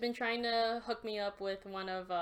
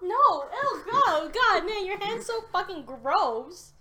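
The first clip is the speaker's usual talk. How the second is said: mock disgust; 7 semitones higher, 8 dB louder, slower than usual. Acted disgust at sweaty hand.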